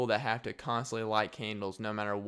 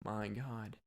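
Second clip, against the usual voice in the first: mock awe; 5 dB quieter, much slower than usual. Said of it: "you're like".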